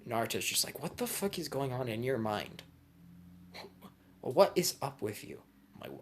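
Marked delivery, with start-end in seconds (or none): 0.8-5.4 high-pitched, incredulous outburst; appalled disbelief. Retold or imitated. Naruto reacting to a friend's crude idea, appalled and high. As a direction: act out baffled outrage, voice pitched up.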